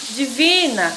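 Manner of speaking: "divina" with the weight on "vi"; stress on VI. Shown as a demonstration. Teacher repeating the example for pupils, stress on "vi" in "divina". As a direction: lean on "vi" in "divina". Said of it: "tem a sílaba mais forte".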